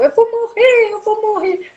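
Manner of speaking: high, panicked wail, retold; imitating desperate panic. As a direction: replay the terror of thinking you'll die. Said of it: "tava muito desesperada". (desespero imitado, agudo e em pânico)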